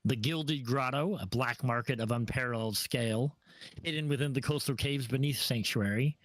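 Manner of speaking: measured scene-setting narration; game master narration. Acted. Game master describing the port to the party, narrating. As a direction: paint the pirate city for the players.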